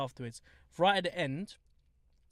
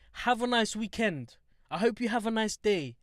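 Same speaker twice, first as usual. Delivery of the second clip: higher-pitched, retold pleasant farewell; friendly send-off; 5 semitones higher than usual. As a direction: wish it in a high, friendly voice. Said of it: "I was very friendly".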